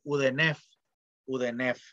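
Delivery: "udenef" con una E entre D, N y F; pronunciación con E. Shown as a demonstration. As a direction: di "udenef" metiendo vocales E de apoyo. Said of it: "metemos la vocal E". ("udenef", lectura egiptológica convencional)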